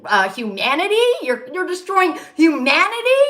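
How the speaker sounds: angry rant climbing at the end; retold cursing out. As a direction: curse them out, re-enacting it. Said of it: "I curse at them".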